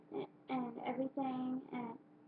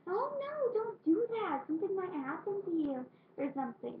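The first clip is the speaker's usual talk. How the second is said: high, anxious begging; panicked pleading; 7 semitones higher than usual. Retold or imitated. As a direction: plead with her in alarm. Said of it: "we were all saying".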